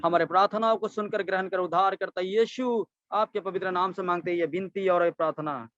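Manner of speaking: earnest prayer leading into the amen; closing prayer. Real, not acted. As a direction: run the prayer on in long, sustained phrases. Closes a prayer before preaching.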